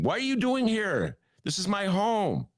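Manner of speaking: lightly voiced alarmed woman; quoted woman. Retelling woman confronted by police.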